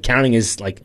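normal talking voice

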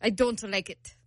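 imitated Italian accent slipping toward Russian; botched Italian accent. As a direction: quote him in a badly faked foreign accent. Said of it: "So he's Russian too?".

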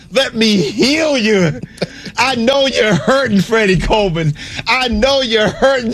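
high, slow, soothing preacher-healer voice; Kenny Atkinson as faith healer. Retold or imitated. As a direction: lay hands on the hurting fans like a televangelist. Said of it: "Kenny Atkinson said".

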